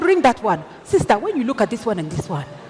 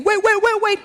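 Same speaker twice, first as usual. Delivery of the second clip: production manager's voice; 11 semitones higher, 4 dB louder than usual. Retold or imitated. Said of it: "My production manager is saying".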